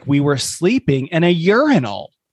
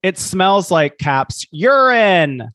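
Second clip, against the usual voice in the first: all caps emphasis; 5 semitones higher, slower than usual. Acted. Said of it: "this is all caps".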